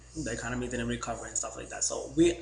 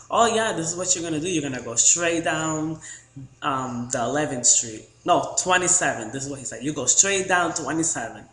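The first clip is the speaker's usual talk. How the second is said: loud directions guy; 3 semitones higher, 5 dB louder than usual. Retold or imitated. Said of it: "I can't even talk the way that he was".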